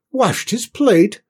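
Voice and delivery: high, loud, slow disbelief; astonished echo. A narrator's reading. Cook amazed by Cinders's clean plate, incredulous. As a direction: repeat it amazed, drawn out and high.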